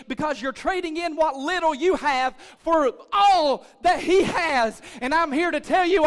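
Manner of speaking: loud, insistent, punched-out phrases; forceful preaching. Real, not acted. Pastor urging church to give heart to God, forceful preaching. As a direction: press the point home with rising force.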